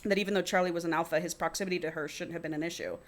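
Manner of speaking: reading a novel aloud; story narration. A narrator's reading. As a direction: read it out as first-person fiction. Reads the book aloud.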